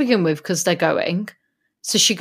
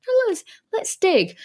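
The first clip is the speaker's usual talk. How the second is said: whiny Susan; 10 semitones higher than usual. Retold or imitated. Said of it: "But she's like".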